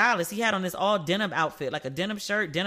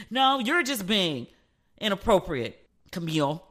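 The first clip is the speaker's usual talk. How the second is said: retold firm correction. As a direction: cut in firmly and spell it out. Daughter cuts mother off, scolding.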